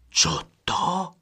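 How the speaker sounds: sharp high surprised call; startled brother crying out. A narrator's reading. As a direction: cry out in surprise at the sight. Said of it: "zvolal první".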